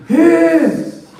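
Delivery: high, gasping mock wheeze; mock wheezing. Shown as a demonstration. Teasing brothers about push-ups, mock out-of-breath wheezing. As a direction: act winded and wheeze it out. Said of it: "Before you start wheezing".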